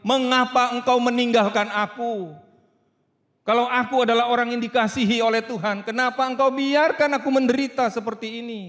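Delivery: loud pleading cry of abandonment; anguished cry. Acted. Jesus on the cross crying out in anguish. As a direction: plead aloud as if forsaken. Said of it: "Yesus Kristus teriak di atas kayu salib".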